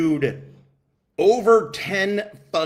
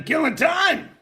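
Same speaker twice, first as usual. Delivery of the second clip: calling out name; 14 semitones higher, 3 dB louder than usual. Real, not acted. Calling out a donor.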